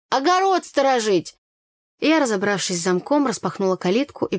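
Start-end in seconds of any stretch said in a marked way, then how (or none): 0.1-1.4 higher, emphatic ОГОРОД СТОРОЖИТЬ; scoffing exclamation. A narrator's reading. Tanya scoffs about dogs' purpose, «Огород сторожить» said emphatically. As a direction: exclaim «Огород сторожить» with a high start, falling.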